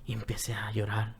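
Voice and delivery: repeats slide into a breathy whisper and die away; fading to a whisper. Real, not acted. Recalling crying in Bible study.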